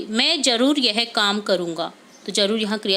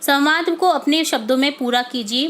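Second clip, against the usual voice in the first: ordinary talk, nothing marked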